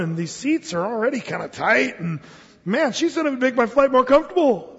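fidget and complain about the cramped seat; grumbling passenger. Acted.

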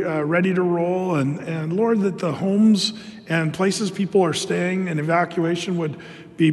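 steady, earnest praying voice; prayer voice. Acted. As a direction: lead the church in prayer. Pastor prays aloud before sermon.

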